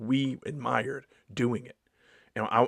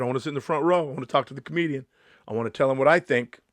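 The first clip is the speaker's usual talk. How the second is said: pushy audience member; 2 semitones higher, 4 dB louder, faster than usual. Retold or imitated. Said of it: "they're yelling out".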